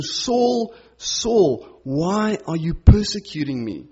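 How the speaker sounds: earnest, emotional appeal in a divine voice, understated; deep emotion. Retold or imitated. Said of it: "shows that deep emotion as he's speaking to him".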